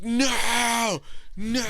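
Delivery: high-pitched, wailing mock scream; retold screaming. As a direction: imitate someone crying out in a scream.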